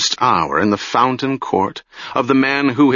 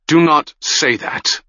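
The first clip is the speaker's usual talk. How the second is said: sharp, raised rebuke; 6 semitones higher than usual. Acted. The maid sharply rebuking Aron's gloomy words, sharp. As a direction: cut him off sharply. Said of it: "the maid said sharply".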